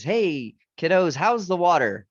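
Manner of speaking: put-on jovial old fish calling to the youngsters; older fish voice.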